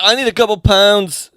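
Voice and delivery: bad British accent. Imitating the in-law asking for money, bad British accent. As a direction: attempt a British accent, clumsily. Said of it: "my accent's really bad compared to yours".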